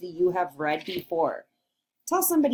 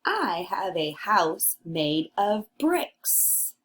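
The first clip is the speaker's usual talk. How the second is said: slow, proud pig voice; third little pig; 3 semitones lower, slower than usual. Acted. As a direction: say it slowly like a sure little pig. Teacher reads third pig's line.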